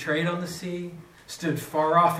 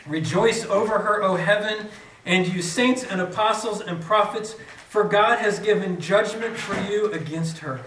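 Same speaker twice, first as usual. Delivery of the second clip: proclaimed reading; 3 semitones higher than usual. Shown as a demonstration. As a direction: announce it boldly to the hall. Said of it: "rereading after interruption".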